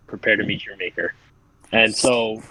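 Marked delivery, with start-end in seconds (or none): 0.1-1.1 lightly acted calm warrior, low and restrained; calm menace. Game master voices a warrior before his swing, calm menace. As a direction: deliver the threat with quiet, lower-pitched composure. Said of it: "calmly looks at you and goes".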